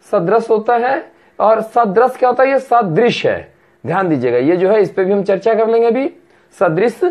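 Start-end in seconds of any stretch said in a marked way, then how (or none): 0.1-0.5 सदृश said slowly without the final ya; correct pronunciation. Shown as a demonstration. Teacher corrects सदृश्य to सदृश, slowly. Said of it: "सदृश्य नहीं होता है". 2.5-3.5 ये सदृश है spelled out slowly; slow demonstration. Shown as a demonstration. Teacher repeats the right सदृश slowly. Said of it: "सदृश्य नहीं होता है".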